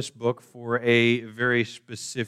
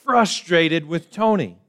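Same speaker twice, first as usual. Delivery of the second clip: higher, complaining wife voice, hammed up a little; mock wife's voice; 7 semitones higher, 3 dB louder, slower than usual. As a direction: play the upset wife in the joke, higher. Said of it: "And she said".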